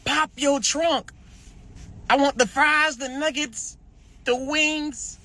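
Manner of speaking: slow, high mock stick-up voice; mock robber demand. Imitating a robber who wants the fries and wings. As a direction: play the robber listing food. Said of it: "they gonna say".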